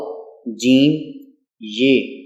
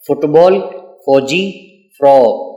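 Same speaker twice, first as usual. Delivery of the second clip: loud for repeating; 4 dB louder, slower than usual. Shown as a demonstration. Teacher leading children in repeating words, calling them out a bit louder. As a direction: say فٹ بال، فوجی، فراق a bit louder for the class to repeat. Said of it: "میرے ساتھ اونچی آواز سے ذرا دہرائیں".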